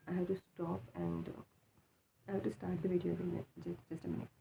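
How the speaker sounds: talking through a swollen mouth, just woken; sleepy, puffy-mouthed mumble. Real, not acted. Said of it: "my mouth is swollen".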